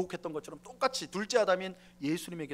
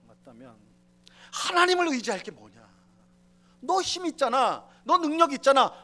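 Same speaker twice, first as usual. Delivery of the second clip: loud, rising taunt, louder toward the end; devil's goading; 4 semitones higher, 9 dB louder than usual. Acted. Preacher voicing the devil tempting Jesus, building loud taunt. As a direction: egg him on harder and harder. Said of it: "마귀가 그렇게 말하는 거예요".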